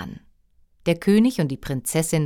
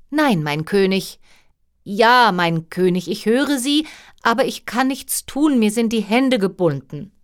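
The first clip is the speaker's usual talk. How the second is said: lightly voiced servant, rising higher as he explains; apologetic servant; 5 semitones higher, 4 dB louder than usual. A narrator's reading. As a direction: plead helplessness to the king. Servant answers the shouting king.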